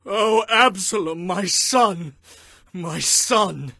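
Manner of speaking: high, full-voiced wail; anguished father's lament; crying out in grief. A narrator's reading. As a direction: call out to your dead son. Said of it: "he cried".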